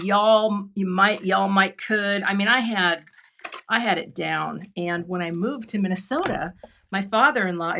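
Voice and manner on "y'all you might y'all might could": slow, lightly imitated Texas talk; Texas accent. Recalling years of living in Texas, in a light Texas accent. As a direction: put on a mild Texas twang. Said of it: "I said things like".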